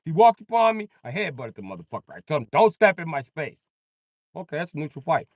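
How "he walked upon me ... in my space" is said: very high, fast excited white guy; high-pitched rushed explanation; squeaky white-guy babble; mock white guy. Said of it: "police be talking to your white friend like".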